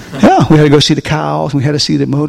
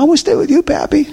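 put-on much higher, sweet childlike pleading; little grandson voice; 12 semitones higher, faster than usual. Grandpa imitating his grandson begging to stay with him, high childlike plea. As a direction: play the clingy little grandson.

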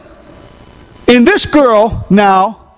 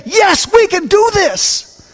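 rousing yes; 9 semitones higher, slower than usual. Acted. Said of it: "Christians that can say".

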